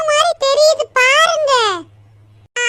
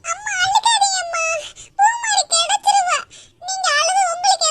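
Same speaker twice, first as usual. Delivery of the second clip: tearful; 4 semitones higher than usual. Acted. Tearful child comforting mother.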